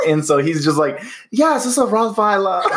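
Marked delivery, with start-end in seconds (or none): 1.3-2.6 slow, higher mock German voice; copying the German man's accent. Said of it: "the kid just thinks he's being funny".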